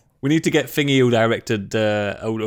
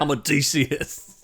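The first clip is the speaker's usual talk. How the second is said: put-on Boston accent; 3 dB quieter, slower than usual. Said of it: "Matt Damon with a Boston accent".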